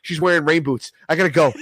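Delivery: hurried high excuse. Retold or imitated. Telling his friend he has to leave, high and hurried. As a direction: squeak out and bail. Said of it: "I was like".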